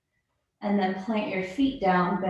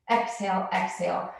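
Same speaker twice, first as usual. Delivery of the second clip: rapid nasal breath pumps. Shown as a demonstration. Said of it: "It goes like this".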